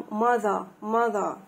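"mother" with the ذ sound in the middle; voiced TH in mother. Shown as a demonstration. Teacher giving a TH example, "mother" with voiced th. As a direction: buzz the th in "mother". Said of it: "مرة تتنطق ذ حرف الزال".

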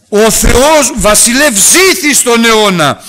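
loud, high, slow and half-sung over music; Daniel calling up joyfully to the king from the lion pit. Acted. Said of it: "του φωνάζει από μέσα".

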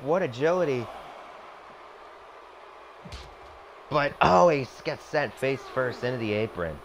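energetic ringside play-by-play; wrestling commentator. Acted. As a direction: call every move like live TV. Commentating the simulated match.

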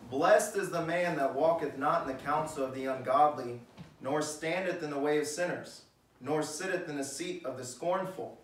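measured King James reading; scripture reading. Acted. Preacher reading Psalm one to the congregation, measured. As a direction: read the verse with weight.

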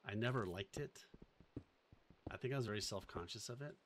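normal talking voice

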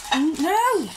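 high, loud scolding no; sharp no. Real, not acted. Owner sharply stopping her dog with a loud high no.

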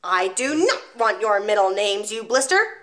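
loud headmistress bellow; bellowed insult. Acted. The Gorgon bellows down at the small boy, loud. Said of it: "the Gorgon bellowed".

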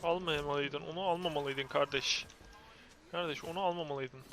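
low, soft scolding of a teammate; subdued, simmering reproof; restrained reproach. Real, not acted. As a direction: hold the anger down, voice low and quiet. Reproaching teammate, before exploding.

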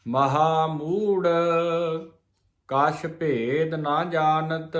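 slow, measured chanted reading of gurbani; slow scripture recitation. Shown as a demonstration. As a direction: recite each word deliberately. Recites scripture line slowly. (ਗੁਰਬਾਣੀ ਦਾ ਹੌਲੀ ਪਾਠ)

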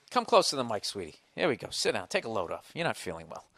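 soft, tender coaxing; gently soothing a sick partner; soft and gentle. Real, not acted. Coaxing sick girlfriend to mic.

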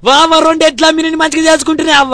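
loud wailing. Acted. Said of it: "అని కోడల్ని మొత్తుకుంటుంది".

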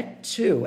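"two" starting with a light TS, "tsu"; two com T-S. Shown as a demonstration. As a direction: say "two" as "tsoo", no CH. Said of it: "como se fosse um T S". ("two" quase como "tsu")

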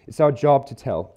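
"job" picked out as the key word; stress on JOB. Shown as a demonstration. Preacher repeating his point to the congregation, stressing "job". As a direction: lean on "job" with a falling tune. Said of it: "emphasis on the word job".

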